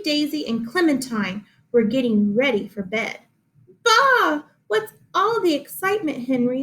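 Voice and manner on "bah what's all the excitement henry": high bleat on Bah, then a much higher nosy voice; bleating sheep. A narrator's reading. Sheep ask Henry about the fuss, bleating high. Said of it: "they bleated".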